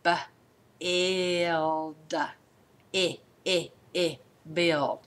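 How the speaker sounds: slow segmented b, ild, eh sounds; sounding out build. Shown as a demonstration. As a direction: stretch out build in pieces. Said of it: "The next word is".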